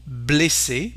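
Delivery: "blessé" with both E's as closed "ay"; closed E before SS. Shown as a demonstration. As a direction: say "blessé" as "blay-SAY". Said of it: "So the sound is E".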